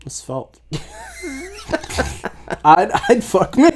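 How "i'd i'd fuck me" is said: said through laughter; laughing. Real, not acted. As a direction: laugh it out, joking about yourself. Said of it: "laughs at own joke".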